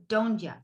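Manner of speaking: "don't ya" slurred to "doncha"; "don't ya" runs together with a "ch" sound; reduced. Shown as a demonstration.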